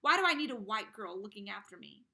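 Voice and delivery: loud holler. A narrator's reading. Boy hollers at Ghost Boy about Sarah. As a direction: yell it in protest. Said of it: "I holler".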